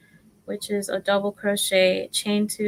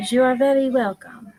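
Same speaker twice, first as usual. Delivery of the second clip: silly put-on voice; 5 semitones higher, 5 dB louder than usual. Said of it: "I don't know what that was".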